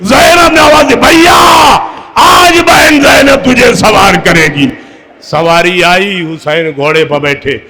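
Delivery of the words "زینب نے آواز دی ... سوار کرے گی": high, loud grieving cry; a sister's wail voiced from the pulpit; mourning shout. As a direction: call out to the brother in anguish.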